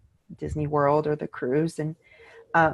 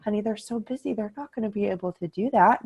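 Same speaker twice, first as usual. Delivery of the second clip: Debbie Downer; 3 semitones higher, faster than usual. Retold or imitated. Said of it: "I'm like Debbie Downer here going".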